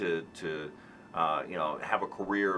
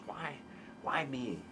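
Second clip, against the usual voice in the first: softer, awed and thankful; full of gratitude; 5 semitones higher, 9 dB quieter, slower than usual. Retold or imitated. Guest voices the grateful why me, soft awe. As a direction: marvel quietly at the blessing. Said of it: "that's full of gratitude".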